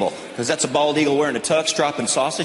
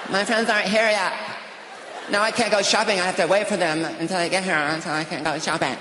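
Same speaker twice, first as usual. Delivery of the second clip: put-on higher whiny teen wail; distraught daughter; 4 semitones higher, 4 dB quieter than usual. Daughter at the mall wailing that her friends aren't there. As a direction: wail it like a dramatic teenager. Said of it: "She's like".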